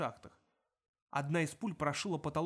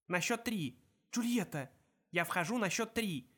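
higher, raised call to partner; 4 semitones higher than usual. Acted. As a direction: call the count across. Calling countdown to partner.

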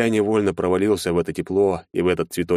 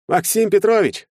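higher, louder gushing greeting; cheerful nervous lawyer; 4 dB louder than usual. A narrator's reading. Lawyer answering Maxim's call, falsely cheerful and high. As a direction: overdo the warm welcome. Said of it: "радостно произнёс адвокат".

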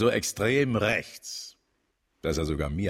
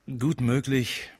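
slow, higher drawn-out thought; slow musing; 8 semitones higher, slower than usual. Acted. Chief muses to John, slow and higher. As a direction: let it hang thoughtfully.

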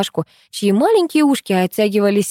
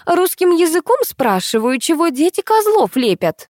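higher, pushier repeat with козлов hit hard; irritated repeat; 9 semitones higher than usual. Acted. Brash mother repeating her question, exasperated. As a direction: repeat it as if to an idiot.

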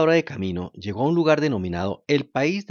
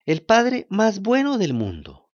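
slow heartfelt puppet voice; 8 semitones higher, 4 dB louder, slower than usual. Acted. Pinocchio praises his father.

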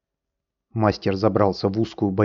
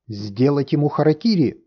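raised howling cry, higher; howled; 6 semitones higher, 3 dB louder than usual. A narrator's reading. Typhoon calling for the master's death, howling cry. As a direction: howl the demand. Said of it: "взвыл Тайфун".

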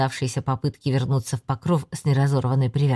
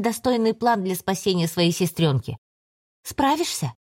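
higher, scornful and commanding; cold demon voice; 4 semitones higher than usual. Acted. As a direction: lecture him with icy contempt. Demon scolding Torren.

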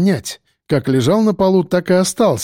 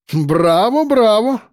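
drawn-out bravo; 7 semitones higher, slower than usual. A narrator's reading. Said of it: "протянул Ландер".

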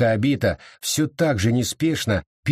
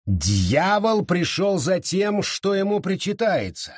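slow, high-pitched declaration; ominous proclamation; 7 semitones higher than usual. A narrator's reading. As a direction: announce it slowly with raised pitch. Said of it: "объявила она".

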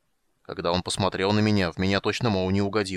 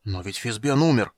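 breathed out; 4 dB louder than usual. Acted. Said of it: "выдохнул гном".

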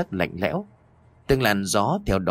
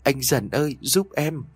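crying harder; 6 semitones higher than usual. A narrator's reading. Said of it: "khóc lớn hơn".

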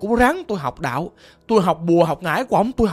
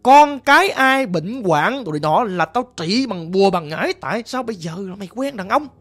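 a mildly raised, scolding father's voice; retold father's scolding. Caller imitates father cursing him, mild mock anger. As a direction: imitate the father berating his son, half-heartedly. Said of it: "Ổng chửi tôi vậy đó".

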